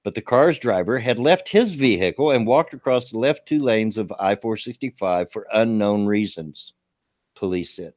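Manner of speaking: reading a news item aloud. Acted. Streamer reading a local crash story to chat, news read. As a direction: read the report straight through, newsy.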